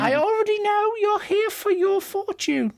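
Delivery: put-on very high old fortune-teller voice; high, theatrical fortune-teller welcome; cackly old lady. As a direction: beckon them in like a piping old crone. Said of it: "a cackly old lady voice".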